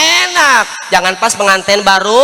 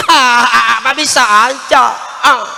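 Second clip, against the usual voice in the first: flattered giggle; 2 semitones higher, slower than usual. Retold or imitated. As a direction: laugh it off like a flattered wife. Voicing flattered wife.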